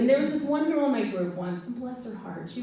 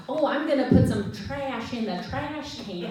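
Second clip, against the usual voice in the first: put-on cheeky kid, laughing; 4 semitones higher than usual. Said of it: "they'd be like".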